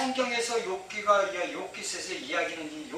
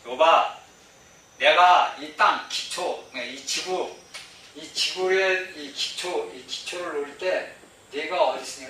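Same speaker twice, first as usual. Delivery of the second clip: lightly voiced God, slow and lower; God questioning Job; 4 semitones lower than usual. God slowly questions Job about the earth's foundations, mild stern voice. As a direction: ask it slowly, a hint of divine sternness. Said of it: "이 하나님이 이제 욥에게 물어보는 겁니다".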